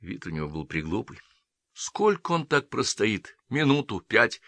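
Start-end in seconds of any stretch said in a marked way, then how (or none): none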